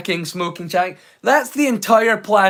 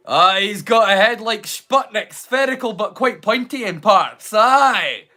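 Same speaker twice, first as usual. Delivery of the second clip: put-on Scottish accent. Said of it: "his accent's fairly spot on".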